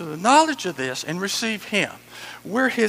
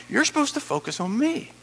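higher-pitched, emphatic urging; insistent instruction; 6 semitones higher, 3 dB quieter than usual. Acted. Preacher voicing God redirecting a worrier, high and insistent. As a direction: press it home in a raised voice.

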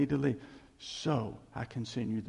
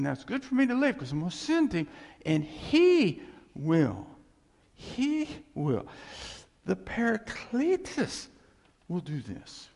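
fervent preaching; 5 semitones higher, 3 dB louder than usual. Acted. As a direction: build to a preacher's peak. Preaching Jesus's words with force.

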